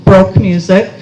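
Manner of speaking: "Baroque" said as one syllable, like "broke"; mispronounced Baroque. Retold or imitated. Asking the librarian for music, "Baroque" misread as "broke". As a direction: say "Baroque" wrongly, as the word "broke". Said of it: "not Baroque music".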